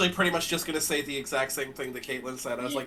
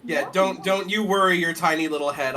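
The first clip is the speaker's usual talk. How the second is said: put-on Southern accent. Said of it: "I'll go back to Disney princess voice in a second".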